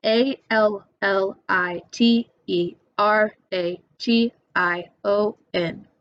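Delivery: "A L L I T E R A T I O N" spelled out letter by letter, slow; spelling it out. Shown as a demonstration. Teacher spelling the word for students to copy, slow. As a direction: spell each letter slowly for note-taking.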